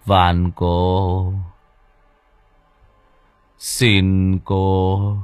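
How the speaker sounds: dazed, slow begging mumble; mumbling to the ghost girl, dazed and drawn out; stammering plea. Acted. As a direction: plead to an unseen woman, half in a trance. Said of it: "miệng lắp bắp".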